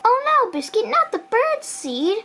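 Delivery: lightly acted dismay, slowing at the end; mild storybook dismay. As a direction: chide a puppy in a children's story. Reader voices owner scolding the puppy.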